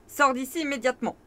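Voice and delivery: ordre rapide et véhément; vociférant. Acted. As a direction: aboie l'ordre en vitesse. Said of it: "vocifère la sorcière". (la sorcière vocifère contre l'écuyer)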